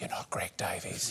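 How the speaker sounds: very quiet, breathy whisper, close to the ear. Imagining a stranger's final words into the speaker's ear while dying, whispering.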